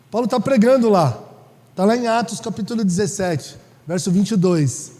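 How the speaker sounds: loud, fervent preaching as Paul; Paul addressing the Greeks, preached loudly. Acted. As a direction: call out to the Athenians.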